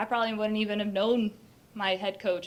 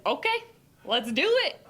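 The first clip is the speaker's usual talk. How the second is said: excited; 7 semitones higher, 4 dB louder than usual. Retold or imitated. Retold eager reply to coach.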